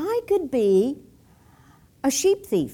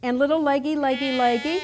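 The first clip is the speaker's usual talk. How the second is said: repetitive singsong sheep call; shepherd calling sheep; faster than usual. Acted. Shepherd calls one sheep by name, singsong calling. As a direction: call the little animals in, lilting. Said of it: "he begins to call his little sheepy".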